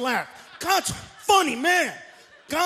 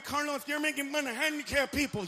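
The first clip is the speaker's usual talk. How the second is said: softer whiny complaint; mock scold; 6 dB quieter than usual. Audience scolding Carlos, a soft whiny mock complaint.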